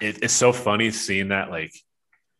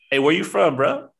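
higher, louder excited mock voice; imitating Ant-Man; 9 semitones higher, 4 dB louder than usual. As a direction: toss out a bright curious question. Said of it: "Ant-Man just goes".

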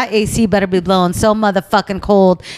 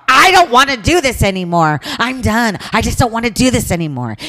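retold yelling at the guy; 4 semitones higher than usual. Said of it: "I'm yelling at the guy".

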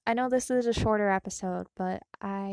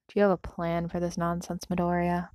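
bored; 2 semitones lower, 5 dB louder than usual. Acted. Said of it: "Shinzo's bored voice".

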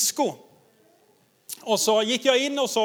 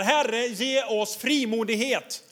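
prayer; slower than usual. Retold or imitated. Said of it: "Och så säger de som här".

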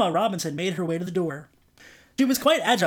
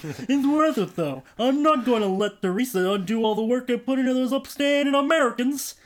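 redo in own voice; 5 semitones higher, 3 dB louder than usual. A narrator's reading. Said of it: "I think I'm doing Barney Rubble now".

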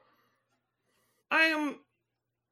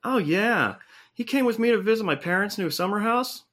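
much lower dude voice; alien-changed guy; 7 semitones lower, faster than usual. Acted. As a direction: drop way down into a laid-back bro. Same low character.

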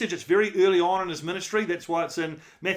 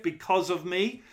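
"because of me" said slowly, each word weighted; stress on because of me; slower than usual. Shown as a demonstration. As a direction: lean on "because of me" and let it land. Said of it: "I want to emphasize those last three words".

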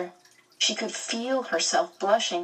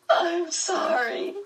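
much higher, slow and tearful; sobbing; 12 semitones higher, slower than usual. Acted. Meg apologizing to Calvin while sobbing. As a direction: apologize through sobs. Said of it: "she sobbed".

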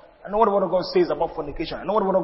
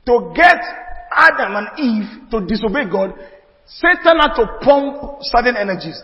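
louder, climbing preaching build; rising preaching; 3 semitones higher, 4 dB louder than usual. Real, not acted. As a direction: build the fire of the sermon.

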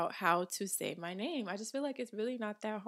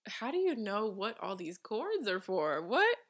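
baffled disbelief. Retold or imitated. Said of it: "I be looking at him like".

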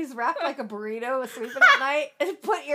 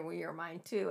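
softer, low seductive murmur; softer, lower mock lover's murmur; imitating a whisper; 11 semitones lower, 14 dB quieter than usual. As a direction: breathe it into her ear, mock seductive. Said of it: "kind of whispers in her ear".

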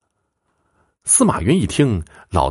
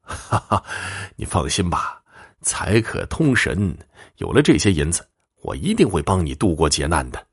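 soft chuckle, then quieter unhurried promises; beaming reassurance; 4 dB quieter than usual. Acted. Fortune-teller patting the old man's shoulder, beaming and reassuring. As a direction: reassure the client with a pleased smile. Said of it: "眉开眼笑地说".

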